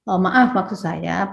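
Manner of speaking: relaxed polite apology; calm self-correction. Retold or imitated. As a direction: correct yourself unhurried, almost offhand. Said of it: "kalau Anda berbicara salah langsung".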